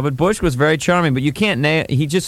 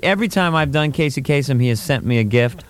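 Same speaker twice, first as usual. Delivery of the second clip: ordinary talk, nothing marked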